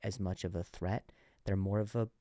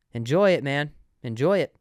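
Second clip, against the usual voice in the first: put-on old timer; 3 semitones higher, 9 dB louder than usual. Old man's wistful advice.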